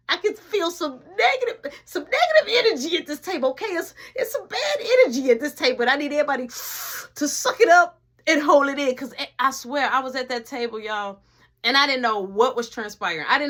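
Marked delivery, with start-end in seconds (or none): 0.1-8.9 high, choked-up mock crying plea; fake-sob it, begging everyone to hold it in; mock-tearful plea. Telling everyone at the dinner table to hold it in, mock-tearful.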